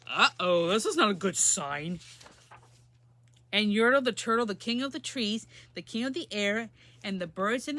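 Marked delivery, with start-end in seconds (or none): 0.1-2.0 worried turtles. Acted. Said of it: "They're like".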